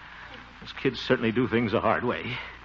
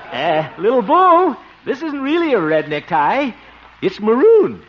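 high, loud, slow coaxing to a bull; nervous pleading; 12 semitones higher, 8 dB louder, slower than usual. Acted. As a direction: plead in a scared sing-song. Pleading with bull over necktie.

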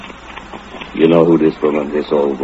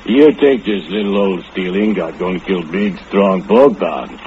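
mocking laugh. Drunk Bogdan mocking warning.

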